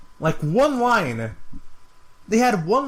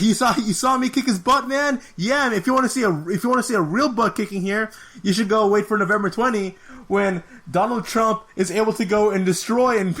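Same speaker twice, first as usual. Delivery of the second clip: much higher, amped-up mock fighter promo with a laugh; imitating Colby; 6 semitones higher than usual. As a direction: hype it up like a cocky brawler cutting a promo. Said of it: "Colby Covington was like".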